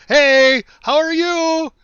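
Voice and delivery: high, loud sugary greeting; sweet fake friendliness. Greeting the driver who flipped him off, syrupy mock cheer. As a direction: kill him with kindness, beaming. Waving, smiling at angry driver.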